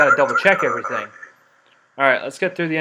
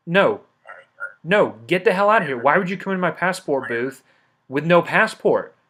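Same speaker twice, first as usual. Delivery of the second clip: mock angry guard; 3 semitones higher, 4 dB louder than usual. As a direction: rant at the entrant half in jest. Guard yelling at passportless entrant.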